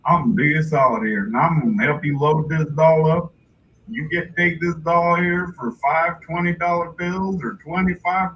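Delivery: fast Texan salesman patter; fake Texan. Seller offering to load the doll, fake Texan. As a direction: sell it in a put-on Texan twang. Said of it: "use my fake Texan voice".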